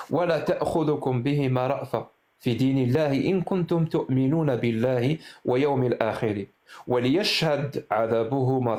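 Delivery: fluent Arabic verse reading; Quranic verse recitation. Real, not acted. Host reading a Quran verse to his caller, recited.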